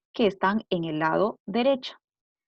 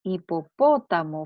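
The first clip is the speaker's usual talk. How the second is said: "Hipopótamo" with PÓ louder and held; stress on antepenultimate syllable; 3 semitones lower, 5 dB louder than usual. Shown as a demonstration. Teacher repeating the word for pupils, "Hipopótamo" stressed on PÓ. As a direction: hit the PÓ in "Hipopótamo". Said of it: "la sílaba tónica está".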